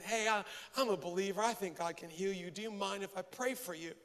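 subdued, unenthusiastic politeness. Retold or imitated. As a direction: offer it half-heartedly, under your voice. Reluctantly offers prayer to the clerk.

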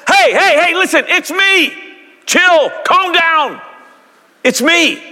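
high, laid-back surfer Jesus; Jesus calming friends like a dude; casual dude Jesus. Pretend. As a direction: chill them out like a buddy. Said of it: "He went".

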